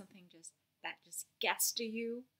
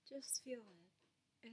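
slower, softer just feel it; slow gentle repeat; 2 semitones higher, 9 dB quieter, much slower than usual. Shown as a demonstration. Coaching the listener to feel it, slow and soft. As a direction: stretch it out gently.

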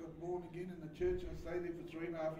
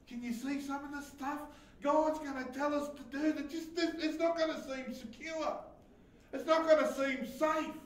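higher-pitched, urgent sermon delivery; raised-voice preaching; 7 semitones higher, 6 dB louder than usual. Acted. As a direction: press the point on the congregation.

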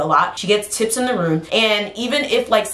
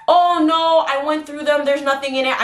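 mom voice; 6 semitones higher than usual. Retold or imitated. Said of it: "mom insisting".

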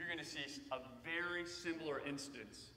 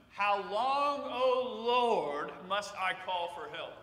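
impassioned cry; 2 semitones higher, 7 dB louder, slower than usual. Acted. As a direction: cry out like a desperate prophet. Reading Habakkuk's complaint aloud.

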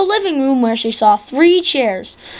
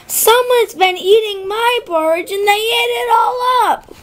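high little bear voice, lightly crying out; Baby Bear; 9 semitones higher than usual. Acted. Baby Bear finds his porridge gone, high and upset. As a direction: squeak it out like a small cub. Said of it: "cried Baby Bear".

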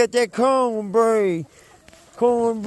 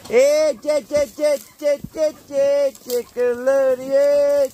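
calling chickens; 3 semitones higher than usual. Real, not acted. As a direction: call the flock over, chanting.

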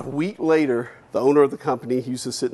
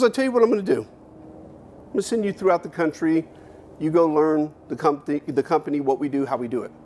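country white guy. Retold or imitated. Owner sends the kid across the country, lightly voiced country boss. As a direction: lay out the plan like a folksy owner. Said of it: "He goes".

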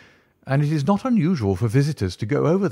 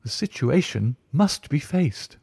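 much higher, pleading, alarmed tutor; astonished dismay; 7 semitones higher than usual. Acted. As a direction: cry out in dismay at being left alone. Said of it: "cried aloud in his astonishment and dismay".

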